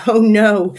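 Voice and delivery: loud, drawn-out "Oh no"; emphatic denial. A narrator's reading. Narrator says Blossom keeps going, emphatic denial. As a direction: lean heavily on "Oh no". Narrator answers own question.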